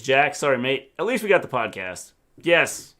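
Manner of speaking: lightly voiced Trump, brisk at the end; a hint of Trump; Trump impression. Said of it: "Mister G has one accent".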